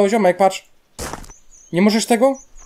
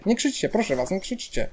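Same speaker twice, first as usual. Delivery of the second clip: soft pleading; 2 semitones higher, 6 dB quieter than usual. Pretend. Player begging viewers not to yell at him, soft plea. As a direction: beg softly, letting it fade.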